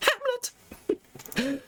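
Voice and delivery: very high, drawn-out cry of the name; theatrical proclamation; dramatic announcement. Acted. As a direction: belt the name out like a grand title reveal. Announcing Hamlet's grand name.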